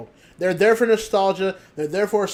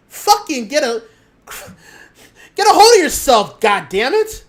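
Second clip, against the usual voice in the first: much louder and higher, yelled; angry shout; 5 semitones higher, 8 dB louder than usual. Real, not acted. Yelling at wrestlers who chase mainstream clout, angry shout. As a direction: explode at them in disgust.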